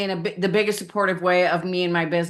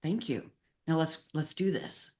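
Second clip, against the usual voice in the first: quiet thanks; 10 dB quieter than usual. Retold or imitated. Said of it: "And it's like".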